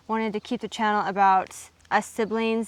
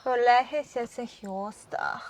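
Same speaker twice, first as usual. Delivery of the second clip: slow, careful attempt at Afrikaans; slower than usual. Shown as a demonstration. Sibling trying happy birthday in Afrikaans, careful attempt. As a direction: sound out the Afrikaans with throaty G's. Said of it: "Try to say happy birthday in Afrikaans".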